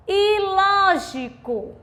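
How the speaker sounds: "lógico" high and slow, LÓ stretched; LÓÓÓ-gi-co, leaning on the first syllable; stress on antepenultimate syllable. Shown as a demonstration. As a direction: draw out the LÓ in "lógico". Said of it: "a antepenúltima sílaba".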